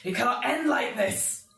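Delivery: mildly voiced defeated demon; dying villain. Game master voices the demon as it dies, desperate protest. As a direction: protest death in a strained villain voice. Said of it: "and he sort of goes".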